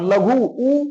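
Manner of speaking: लघु said slowly, then उ held separately; sounded-out word ending. Shown as a demonstration. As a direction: stretch लघु and echo its final उ alone. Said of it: "उच्चारण करके देखो".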